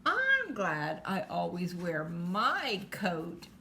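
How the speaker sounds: slow, lightly voiced cat; slow storybook cat remark; kitty cat. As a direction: stretch it out like a self-satisfied cat. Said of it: "And the kitty cat says".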